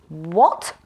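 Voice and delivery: sharp startled loud what; surprised cry. A narrator's reading. Magician finding the work undone, startled cry. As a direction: react to the unpeeled potatoes. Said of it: "he cried".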